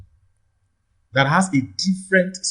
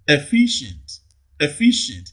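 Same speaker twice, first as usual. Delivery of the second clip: Efficient with FI prominent, then falling; stress on second syllable. Shown as a demonstration. Teacher models option C, Efficient stressed on FI. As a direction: punch the middle syllable of Efficient. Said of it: "second syllable receives the primary stress".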